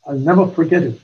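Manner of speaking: usual speaking voice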